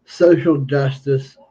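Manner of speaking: speaking without dentures; lisping, gummy speech with no teeth in; toothless. Real, not acted. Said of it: "I'm speaking a little bit funny".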